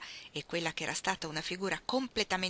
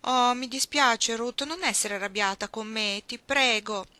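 louder, slow pleading apology; apologetic Iggy; 4 semitones higher, 6 dB louder, slower than usual. Acted. Iggy begging Ruth not to be angry, slow pleading. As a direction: beg forgiveness, drawn out.

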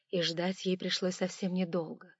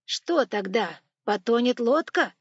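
curious monk voice; 4 semitones higher, 8 dB louder, slower than usual. Acted. Tyutin asks again.

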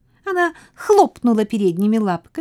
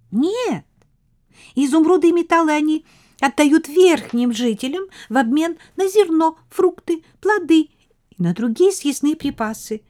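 high, bright queen mouse; 7 semitones higher than usual. A narrator's reading.

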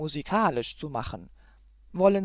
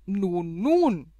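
soothing nun rising to a loud call; 3 dB louder than usual. A narrator's reading. Grumedan calls to the fainted Zoraide, loud rising call. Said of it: "rief er".

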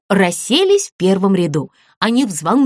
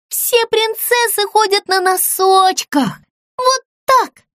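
showing off; 11 semitones higher, slower than usual. Acted. Doll showing how princesses walk.

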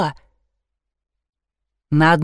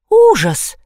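horrified cry; 13 semitones higher, 4 dB louder than usual. A narrator's reading. Horror at the wreckage.

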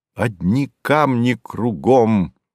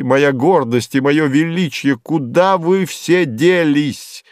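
raised, ringing pitch, slowing to the end; rhetorical exclamation; 5 semitones higher than usual. Acted. Young man calling to his vanished dreams, exclaiming. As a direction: cry out in wonder at lost grandeur.

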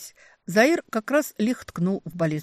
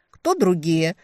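loud, bewildered question; 7 dB louder, slower than usual. A narrator's reading. Woman asking into empty air, bewildered question. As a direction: ask it in confusion. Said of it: "растерянно задала вопрос в пустоту".

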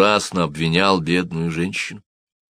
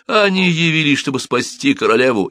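high, urgent shouted accusation; shouting; 9 semitones higher, 3 dB louder than usual. A narrator's reading. Cobbler denouncing hidden aristocrats to guards, shouting. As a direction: raise the alarm, pitched high. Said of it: "кричал Симон".

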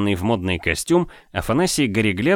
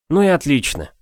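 relieved; 6 semitones higher than usual. Acted. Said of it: "с облегчением вздохнул я".

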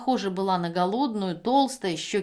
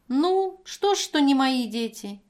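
sharply higher, louder, indignant; 6 semitones higher, 5 dB louder than usual. Acted. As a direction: challenge her, outraged. Евдокия возмущена. (возмущённо, с вызовом, выше и громче)

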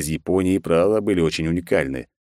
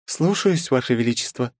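put-on high, thin young woman's voice over an intercom; a secretary answering her emperor in a tiny high voice; thin little voice; 7 semitones higher than usual. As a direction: chirp it like a small secretary's voice through a speaker. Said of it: "ответил тоненький голосок из динамика".

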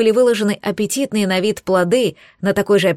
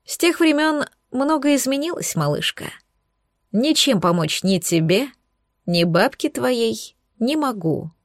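dull hollow voice; 4 semitones higher than usual. Acted. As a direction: let the voice go hollow. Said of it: "голос звучал глухо".

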